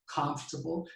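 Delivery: comfortable said the English way, stress on COM; English pronunciation of comfortable. Shown as a demonstration. Teacher models comfortable in English pronunciation. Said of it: "pero en inglés".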